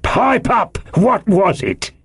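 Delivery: sarcastic, badgering interrogation, rising high; slow mimicry building to sharp demands; mocking cry. A narrator's reading. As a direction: throw the answer back with scorn. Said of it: "cried Long John".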